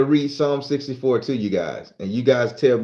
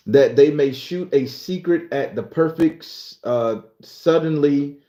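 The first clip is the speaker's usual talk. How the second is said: scripture reading; 2 semitones higher than usual. Acted. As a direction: read it out phrase by phrase, stretching the words. Reads a psalm aloud.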